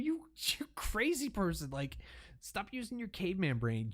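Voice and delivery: exasperated rebuke, pitch way up; you crazy person, with pitch way up; incredulous scolding. Real, not acted. Scolding the attacker.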